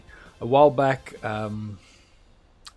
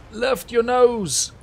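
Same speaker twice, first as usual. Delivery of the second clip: urgent; 5 semitones higher, 3 dB louder, much slower than usual. Real, not acted. Plane losing altitude.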